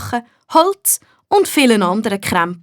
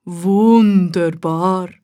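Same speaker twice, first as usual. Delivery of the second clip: very slow, savoured gnome voice; a gnome relishing the soil; delighted gnome; 3 semitones lower, much slower than usual. A narrator's reading. The gnome digs beside the tomatoes, slow delighted gnome. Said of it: "sagt er".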